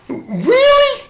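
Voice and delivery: high, laughing disbelief; scoffing at the judge's decision; incredulous. Real, not acted. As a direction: pitch it up in amused disbelief. Incredulous retort after judge quote.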